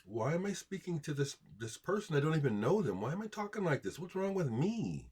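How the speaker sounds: mock self-questioning. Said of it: "Ask yourself".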